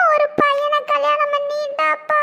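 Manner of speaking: breaking into tears as he tells it; tearful. Acted. Boy tells his father the sister married, crying.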